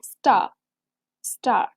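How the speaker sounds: स्टार with a barely there r; soft r. Shown as a demonstration. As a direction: say स्टार with the r almost gone. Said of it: "आर की sound is not very strong".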